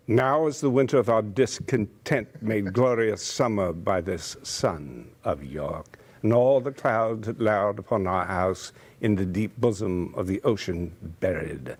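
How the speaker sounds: theatrical Richard III speech; Shakespeare recital. Shown as a demonstration. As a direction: recite it like a stage actor. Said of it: "And so I did Shakespeare".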